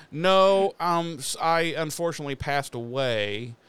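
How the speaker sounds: loud, high-pitched "No" then easing down; mock-explaining to someone asking the obvious; mocking mock answer. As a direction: sarcastically act out a ridiculous reply. Mocking answer to stupid question.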